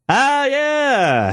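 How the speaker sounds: high, drawn-out mock "oh yeah"; taken-aback booker. Booker faces giant guys at the door, high backpedaling greeting. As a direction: play the booker losing his nerve lightly. Booker startled by roomful of men.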